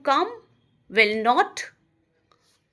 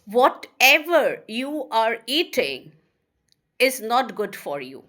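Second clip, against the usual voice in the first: slow, spaced dictation with a pause mid-sentence; slow teacher dictation. Shown as a demonstration. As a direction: read it out slowly for students to write. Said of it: "Or if I say".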